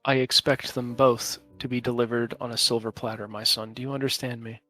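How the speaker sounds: calm, regal father speaking inside your head; measured, patient, kingly disapproval; patient fatherly regal voice. Acted. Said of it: "patient, fatherly, almost regal voice in your head".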